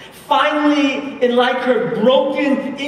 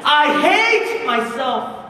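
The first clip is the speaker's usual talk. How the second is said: slow, raised-pitch retold self-loathing cry; anguished repeated cry; 5 semitones higher, 3 dB louder, slower than usual. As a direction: stretch HATE out, high and insistent. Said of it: "she kept saying this over and over".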